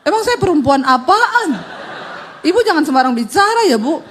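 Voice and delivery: laughing, hammed-up offended protest; mock indignation. Preacher mimics woman's offended retort, laughing. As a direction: play affronted, half laughing.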